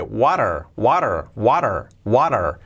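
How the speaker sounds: "what are" linked into "wa-rer"; T as soft R. Shown as a demonstration. Teacher joining what and are, tapped R in "water". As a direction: tap the T so it sounds like "water". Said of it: "como resuave".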